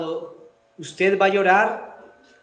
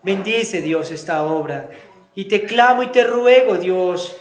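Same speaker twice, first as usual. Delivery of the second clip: fervent prayer. Real, not acted. Pastor praying aloud for the standing congregation, fervent pleading. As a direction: pray aloud for the whole church, pleading.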